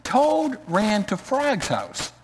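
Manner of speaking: lively read-aloud storytelling voice with character lines; story narration. Acted. Pastor reading a children's story to the congregation, lively read-aloud.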